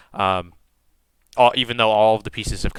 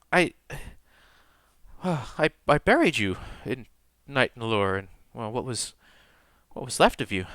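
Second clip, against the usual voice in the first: a hint of a shaken priestess, mostly quiet; grieving priestess; 3 dB quieter than usual. Priestess recalling the old tomb to Tor, quietly shaken. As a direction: speak softly, struggling for words.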